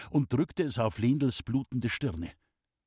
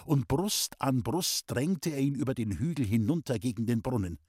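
ordinary delivery, nothing marked

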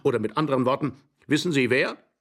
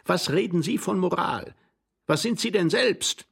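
high-pitched quarrelsome challenge; agitated, affronted questioning; indignant retort; 7 semitones higher than usual. Acted. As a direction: fling the accusation back, pitched up. Quarrel, throwing accusation back.

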